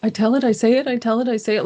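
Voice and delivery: put-on a frightened little kid asking permission; child's plaintive voice. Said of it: "in a child's plaintive voice".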